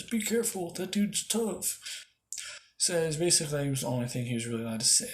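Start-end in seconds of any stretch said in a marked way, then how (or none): 0.0-1.8 high, slow, strained warning; wounded man's warning. Acted. Wounded captain warns the others, acted strained warning. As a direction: draw it out high, as a hurt man.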